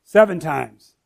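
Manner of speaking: mock-confident disciple boasting; proud Peter. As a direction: brag like proud Peter sure of himself. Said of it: "he's probably like".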